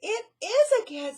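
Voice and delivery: high, loud fearful cry; frightened. Acted. Melissa crying out at the cat. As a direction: cry out in fear. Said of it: "said Melissa".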